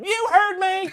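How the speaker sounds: very high, loud mock bully screech; big kid's yell. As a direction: scream it as the biggest kid, hammed-up. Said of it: "that kid is like".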